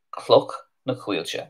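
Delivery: Cloch na Cuilche said slowly, with a throaty ch in Cloch; slowed-down Cloch na Cuilche; slow Irish pronunciation. Shown as a demonstration. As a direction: spell out Cloch na Cuilche for the learners. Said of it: "That's where Clonakilty comes from".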